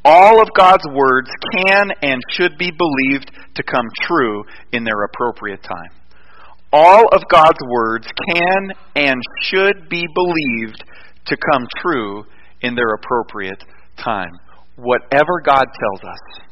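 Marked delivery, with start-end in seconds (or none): 0.0-5.9 measured dictation. Shown as a demonstration. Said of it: "I want you to write this down". 6.7-14.3 slower dictation. Shown as a demonstration. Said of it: "I want you to write this down".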